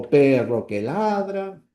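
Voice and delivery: "perro que ladra" slowly, left hanging level; unfinished phrase. Shown as a demonstration. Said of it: "puntos suspensivos". ("perro que ladra" lento, tono horizontal sin cierre)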